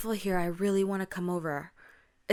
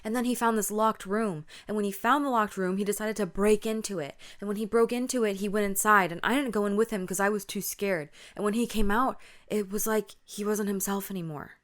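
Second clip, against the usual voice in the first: louder, urgent run-on account; panicked friend; 3 semitones higher, 5 dB louder, faster than usual. Acted. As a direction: play a rattled friend spilling everything out. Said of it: "panicked, panting, breathing heavy".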